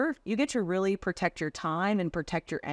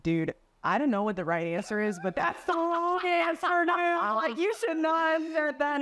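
rising higher into a scolding peer; stern scolding; 9 semitones higher than usual. Retold or imitated. Colleague scolding the closer after his call review, higher scolding voice. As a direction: tell him off, pitch climbing as you go.

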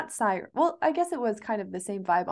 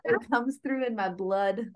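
put-on Irish accent. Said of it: "It really does".

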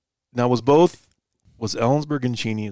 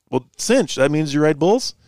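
put-on light English accent, pitched up and louder; 5 semitones higher, 4 dB louder than usual. Retelling the English guy's question, a light English accent. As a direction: impersonate the English guy asking, amused. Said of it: "In an English accent".

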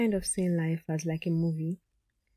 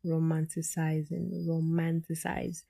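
slow, drawn out; 3 dB quieter, slower than usual. Shown as a demonstration. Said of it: "if I say this word the third time".

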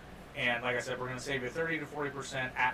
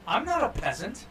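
mock snobbish; 10 semitones higher, 5 dB louder than usual. Jokes about lacking recline seats.

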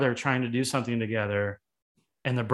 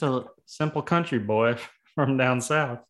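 fake bashful aw shucks. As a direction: play the simple country boy. Joking self-description as country boy.

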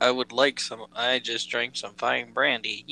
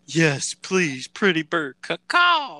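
louder squawky bird voice rising high; bird video impression; 5 semitones higher, 5 dB louder, slower than usual. Friend quoting the funny bird video. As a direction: squawk it like a parrot. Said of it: "funniest shit I've ever seen".

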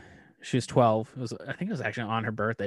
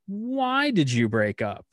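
sudden suspicious question; 8 semitones higher, 4 dB louder, slower than usual. Retold or imitated. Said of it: "I'm like".

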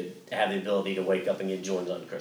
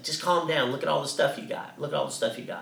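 higher-pitched, lightly voiced parent settling a child; imitated calming parent; 5 semitones higher, 3 dB quieter than usual. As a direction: imitate a parent reining in an excited kid. Parents calming their excited child, retold.

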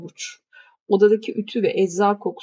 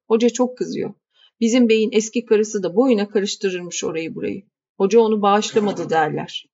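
lightly voiced grumbling housekeeper. Housekeeper warning the young lady about the keys, grumbling. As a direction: grumble while handing over the keys.

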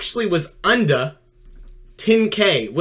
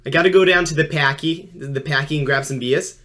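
put-on Boston accent warm-up line. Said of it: "a specific line first before I can actually get into the accent".

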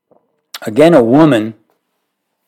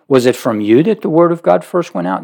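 sarcastic; 6 semitones higher than usual. Retold or imitated. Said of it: "This is sarcasm".

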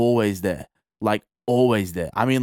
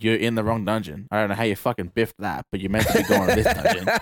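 laughing. Retold or imitated. Retelling scolding newbie, laughing.

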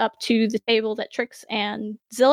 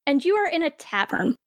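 story narration. A narrator's reading. GM scene setting.

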